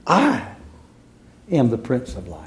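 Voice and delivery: hushed. Acted. Preacher quoting Jesus, hushed.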